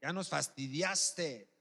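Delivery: slow, drawn-out rebuke; understated, fed-up hushing; scolding. Acted. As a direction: tell him off, stretching the words. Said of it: "le reprendían para que se callase".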